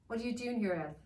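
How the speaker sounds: cold dark master; villain confronting the elf; villain demanding. Acted.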